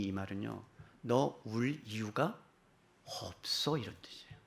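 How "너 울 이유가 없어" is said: soft reproof with drawn-out words; gentle rebuke. Acted. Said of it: "예수님의 부드러운 책망의 말씀이에요". (속삭이듯 부드러운 책망)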